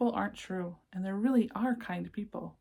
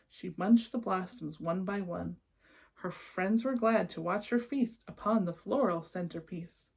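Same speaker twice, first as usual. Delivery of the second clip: lilting rhymed read-aloud; storybook narration. A narrator's reading. Reading a rhyming picture book to children, lilting storyteller voice. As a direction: read the verses like a bedtime book.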